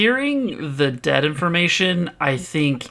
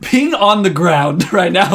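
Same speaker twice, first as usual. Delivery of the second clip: laughing while talking; 2 semitones higher, 5 dB louder than usual. Real, not acted. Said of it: "excuse me".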